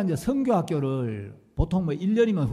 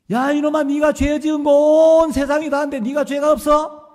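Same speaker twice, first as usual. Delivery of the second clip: loud, higher, furious bellow; thundering rebuke; 10 semitones higher, 11 dB louder than usual. Retold or imitated. Pastor thundering at the student over his sins, furious bellow. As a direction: blast him with sudden wrath. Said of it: "호통을 치시면".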